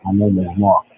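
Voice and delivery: muffled bad phone line; underwater gurgling voice. Real, not acted. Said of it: "you sound like you're underwater".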